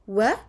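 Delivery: W-I-N-K as "wuh... ih... nnn... k"; isolated letter sounds, the N held long; sounding out. Shown as a demonstration. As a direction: leave long gaps between the sounds of W-I-N-K. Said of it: "if we code it".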